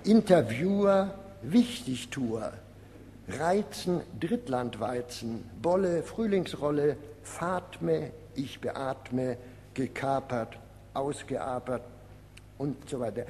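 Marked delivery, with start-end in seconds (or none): 0.0-11.8 measured pairs, first word lifted, second dropped; rhyme list recital. Acted. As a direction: recite each rhyme pair like a punchline, with pauses. Reads out collected rhyme pairs. (Reimpaare pointiert vorgetragen)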